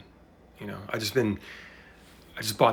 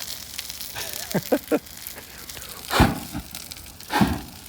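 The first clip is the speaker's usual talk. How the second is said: nervous laugh. Real, not acted. Laughs at the grill fire.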